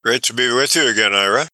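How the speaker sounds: tinny bad microphone; like talking through a tin can; tin can phone. Real, not acted. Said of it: "talking through a tin can".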